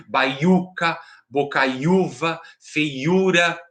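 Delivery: "Baiuca, bocaiúva, feiura" with the U of each word drawn out; stressed tonic syllable. Shown as a demonstration. Teacher shows where the accent used to go, stressing U in "Baiuca, bocaiúva, feiura". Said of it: "a gente fala que é mais forte".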